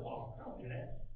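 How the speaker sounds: sheepish whispered protest; mock denial. Preacher arguing with the Holy Spirit, whispered denial. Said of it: "I start arguing with the Holy Spirit".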